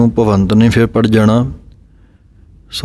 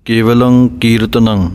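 ਕੇਵਲੰ ਕੀਰਤਨੰ with a falling close and rest; full stop after. Shown as a demonstration. Teacher showing the rest after ਕੀਰਤਨੰ. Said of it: "ਇੱਥੇ ਵਿਸਰਾਮ ਲਗਾਉਣਾ ਹੈ".

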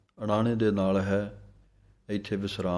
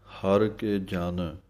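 ਹਰ ਕੇ ਜਨ read slowly, then a brief halt; slow down and hold a half pause after ਜਨ; short pause after; much slower than usual. Shown as a demonstration. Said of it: "ਇੱਥੇ ਜਮਕ ਹੈ".

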